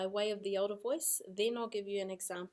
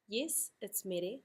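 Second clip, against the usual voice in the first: slow agreement; slower than usual. Shown as a demonstration. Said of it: "give that another go".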